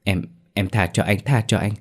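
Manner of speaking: a touch of husband's fury, then pleading; angry then begging. Acted. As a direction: curse her, then beg the ghost. Sĩ accuses wife, then begs.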